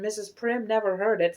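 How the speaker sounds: plain reading voice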